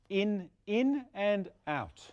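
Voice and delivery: "in, in" as two quick bouncing beats, then one "out"; double beat cue. Shown as a demonstration. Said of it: "a little bit of a bounce at the end".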